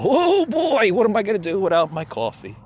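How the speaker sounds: high, loud whiny panic; mock panicky freakout. Comedian mocking himself without coffee, hammed-up high panic. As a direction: squeal it like a frantic person without coffee. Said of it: "I get a little".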